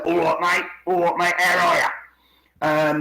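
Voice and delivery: imitated London greeting, last words drawn out; lightly mimicked London dialect; London accent. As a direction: put on a chummy London accent. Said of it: "you can go to London".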